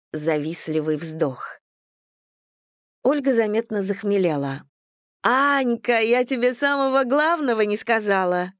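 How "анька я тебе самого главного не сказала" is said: tipsy exclaiming. A narrator's reading. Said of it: "воскликнула она".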